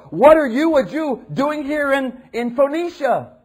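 high, loud, slow scornful dismissal; imagined harsh reply to woman at the well; mock hostile rebuff. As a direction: drive the woman away with contempt. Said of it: "He could have said".

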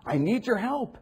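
high, loud pleading cry; woman crying out for help; desperate plea. Retold or imitated. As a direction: beg as if desperate. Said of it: "and she said".

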